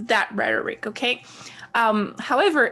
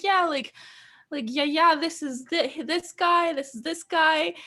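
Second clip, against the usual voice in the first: own younger self; 6 semitones higher than usual. Retold or imitated. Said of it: "And I was like".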